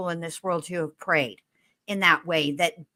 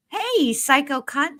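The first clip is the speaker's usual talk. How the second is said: relished insult; 8 semitones higher than usual. Real, not acted. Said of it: "my favorite name to say".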